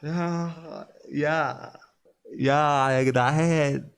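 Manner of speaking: long, repeated groans of revulsion; disgusted groaning. Real, not acted. Host revolted by a pickle video, groaning in disgust.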